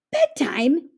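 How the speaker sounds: can't believe the word; surprised exclaim. A narrator's reading. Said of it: "exclaimed Jim".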